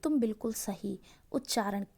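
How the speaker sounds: ordinary talk, nothing marked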